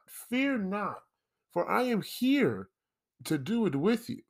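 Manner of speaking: grand heroic proclamation, pitched high; pompous vain hero. Pretend. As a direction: announce yourself like a vain savior. Mock heroic rescue of listeners.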